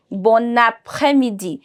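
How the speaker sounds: Bon après-midi joined by a sounded N; with liaison. Shown as a demonstration. Teacher demonstrates the connection she is creating, words linked. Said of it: "this connection that I'm creating".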